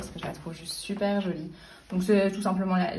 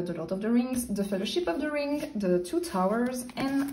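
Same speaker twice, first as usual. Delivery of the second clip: English book titles in a French accent; French speaker carefully saying English titles; 3 semitones higher than usual. Real, not acted. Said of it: "Désolée pour mon accent anglais".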